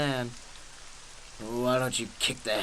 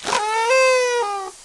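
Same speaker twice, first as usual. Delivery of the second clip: a high, loud startled oh; be caught off guard; shocked oh; 7 dB louder than usual. Acted. Joker finding his gun is empty, startled gasp of oh.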